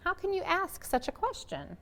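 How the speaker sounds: father answering his wife with silent sorrow; sorrowful reproach. A narrator's reading. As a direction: ask it quietly with hurt. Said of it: "as if to say".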